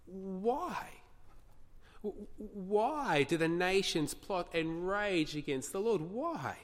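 astonished, drawn-out questioning; puzzled psalmist. Acted. Preacher voicing the psalmist's question, puzzled and astonished. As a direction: ask it as if baffled by what they do. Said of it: "the psalmist is puzzled, uh, astonished".

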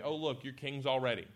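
understated sarcasm; sarcastic. Retold or imitated. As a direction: dryly feign noticing their grandeur. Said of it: "He says sarcastically".

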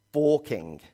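forking said as the English say it; English pronunciation. Shown as a demonstration. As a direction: pronounce forking the way people in England do. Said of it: "That's how they say it".

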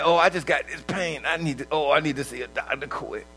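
hammed-up whimpering over a sore ankle; mock hypochondriac. Patient in the ER fussing over a twisted ankle, hammed-up.

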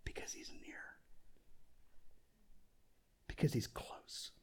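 hushed, very soft and close; intimate whisper. Shown as a demonstration. Preacher explaining God's nearness to the congregation, whispering. Demonstrates why God is whispering.

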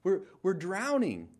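high, loud frantic scream to wake him. Retold or imitated. Disciples bailing water scream at sleeping Jesus, loud high panic. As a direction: yell over the storm, terrified. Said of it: "just, like, screaming".

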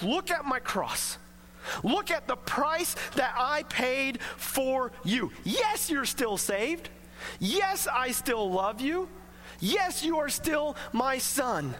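slow, gentle fatherly assurance; calm the fearful sinner slowly; tender reassurance. Retold or imitated. God reassuring a believer who sinned, slow and tender.

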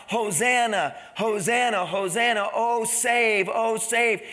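mild, repeated retold cry. Preacher voicing children in the temple, mildly crying out. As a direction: lift the voice a little, like children calling. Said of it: "they began to cry out".

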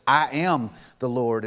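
"I am" drawn out slowly and firmly; stress on I AM. Retold or imitated. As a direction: set "I am" apart with weight. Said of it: "She was emphasizing the name of God".

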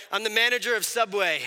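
lightly voiced pompous ruler; a hint of mock-regal proclamation; mock self-styled king. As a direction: declare it like a would-be monarch. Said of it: "this is not how we talk anymore".

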